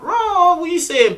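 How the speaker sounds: high, playful smooth-talker opener; cocky flirty greeting. Retold or imitated. Flirty reply voiced in story.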